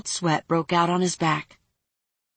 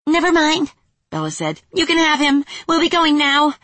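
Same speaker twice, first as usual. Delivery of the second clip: nervous fairy; 9 semitones higher, 5 dB louder than usual. Acted. Fairy Bella backing off.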